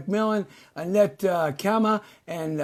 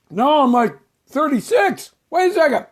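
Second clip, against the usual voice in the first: put-on high, louder young voice; higher voice; 8 semitones higher, 5 dB louder than usual. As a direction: push the voice up high. Pretending to get younger.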